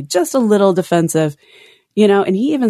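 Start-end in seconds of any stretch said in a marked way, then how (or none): 0.0-1.4 sarcastic. Shown as a demonstration. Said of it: "I'll say that sarcastically".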